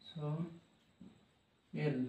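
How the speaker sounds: "সয়েল" very slow and soft, so, long pause, el; broken into syllables. Shown as a demonstration. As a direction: split "সয়েল" into two hushed parts. Teacher splitting word into parts.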